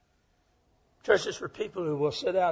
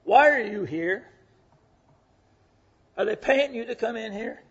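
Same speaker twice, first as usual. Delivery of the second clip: suspicious inmate; 6 semitones higher, 7 dB louder than usual. Retold or imitated. Inmate challenging the visiting preacher, loud and suspicious. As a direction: press him like a wary inmate. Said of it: "one of them said to me".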